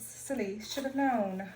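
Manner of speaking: playfully put-on British accent; mock British accent. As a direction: slip into a light British accent. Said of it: "Y'all remember the British accent?".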